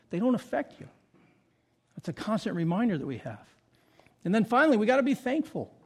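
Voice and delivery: ordinary talk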